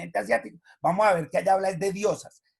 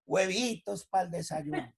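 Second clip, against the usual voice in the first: mild offhand request; 6 dB quieter, slower than usual. Retold or imitated. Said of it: "Y enseguida le pido".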